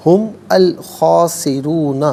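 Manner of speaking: ہم الخاسرون slow with the mim joined on pesh; joined recitation. Shown as a demonstration. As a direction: chant ہم الخاسرون as one. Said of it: "ملا کر پڑھنے کی صورت میں میم پر پیش ہوگا".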